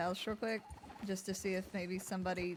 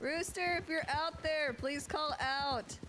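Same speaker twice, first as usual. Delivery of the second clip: calling out; 6 semitones higher, slower than usual. Acted. Searching woods, calling for missing man.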